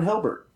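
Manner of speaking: "Hilbert" with an H for the G of Gilbert; misapplied H rule on "Hilbert"; overcorrected H. Retold or imitated. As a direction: say the town as HIL-bert, "Hilbert". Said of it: "give it an H sound".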